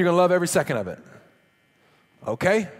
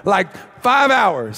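mock excitement; 5 dB louder than usual. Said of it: "if you were to go tell people that story".

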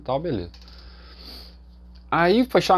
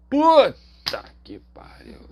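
much higher, slow, stunned exclamation; shocked curse; 11 semitones higher, much slower than usual. Real, not acted. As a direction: drag it out in disbelief. Reaction to deadly surgery news.

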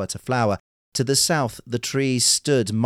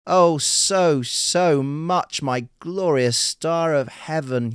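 higher, louder, drawn-out rapture; enraptured; 6 semitones higher, 4 dB louder, much slower than usual. A narrator's reading. Urashima answers his bride the princess, still enraptured. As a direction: pour out rapt adoration, slowing down. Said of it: "still enraptured".

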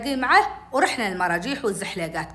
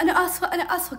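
higher-pitched, pleading apology; scared apology; 6 semitones higher than usual. Retold or imitated. Frightened girl to her punishing sister, pleading apology. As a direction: plead for it to stop. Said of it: "كنت خايفة حدي".

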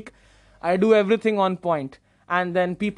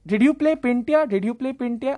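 higher-pitched excited uncle; excited fan asking, pitched up; eager questioning; 4 semitones higher than usual. Retold or imitated. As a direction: imitate an uncle eagerly checking who you are. Uncle eagerly recognises the young actor.

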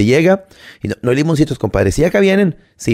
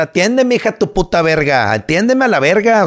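higher, heated demand; higher indignant outburst; angry rant; 6 semitones higher than usual. Real, not acted. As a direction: snap back at the waitress.

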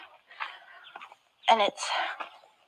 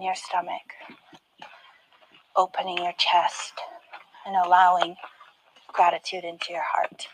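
guided meditation; 2 semitones lower than usual. Acted. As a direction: guide the listener into calm. Leads a meditation.

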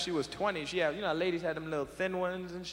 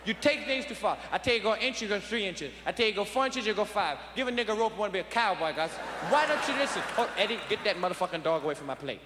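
put-on higher, shouting drunk dad; drunk father scolding Gus; 4 semitones higher than usual. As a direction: chew out the uncle like a drunk father. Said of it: "He said".

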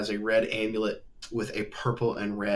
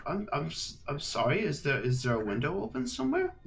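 nervous lord; 4 semitones higher than usual. Acted. GM voices the lord.

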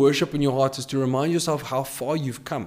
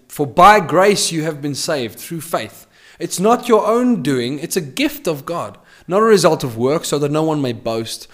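louder, emphatic reading of the verses; preaching the verses with force; forceful scripture reading; 4 dB louder than usual. Acted. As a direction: proclaim the passage to the congregation. Preacher reads scripture aloud.

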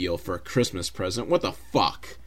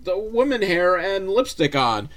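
a bad disguise trying to sound female; man faking a woman; 8 semitones higher than usual. Tom Arnold in a wig fooling the thugs, hammed-up high voice. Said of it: "he's like".

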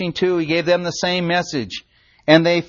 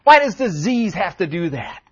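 anguished prayer. Retold or imitated. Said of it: "my heart just cries out and says".

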